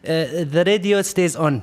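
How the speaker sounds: put-on fast-talking car seller in an Arab accent; imitated Arab accent. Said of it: "I'm gonna try to talk to his accent".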